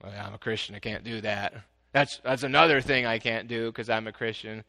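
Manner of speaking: lightly voiced complaining churchgoer; grumbling Christian. Mimicking a reluctant churchgoer, lightly grumbling. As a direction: mope through the excuses. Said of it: "the guy that says".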